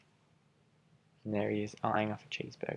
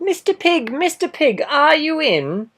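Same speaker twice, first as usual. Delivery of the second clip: high sing-song call, slow on the last words; 17 dB louder, slower than usual. Acted. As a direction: coax the pig from outside, way up high. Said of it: "I called".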